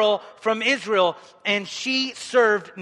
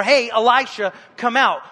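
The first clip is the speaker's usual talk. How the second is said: calling out; 5 dB louder than usual. Pretend. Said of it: "You're knocking on the door of Elisha".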